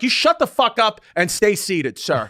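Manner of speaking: slow, emphatic mock order, dropping on sir; retold unrepentant anger. Flight attendant still telling passenger off, mock angry. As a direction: imitate her refusing to back down. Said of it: "she didn't come to her senses".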